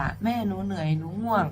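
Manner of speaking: softly, worn out; tired child. Retold or imitated. Sleepy girl tells mother she's tired, softly. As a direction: let the words sag with fatigue.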